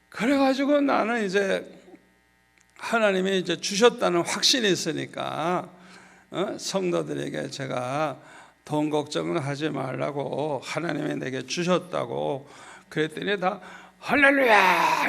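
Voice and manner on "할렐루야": joyful cheer, loud and slow. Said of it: "이러고 좋아하더라고요".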